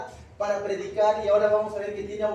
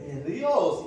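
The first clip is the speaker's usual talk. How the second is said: very slow, loud, higher demon cry; 4 semitones higher, 7 dB louder, much slower than usual. Acted. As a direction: stretch each word out loud like a terrified spirit. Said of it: "¿Y qué dice?".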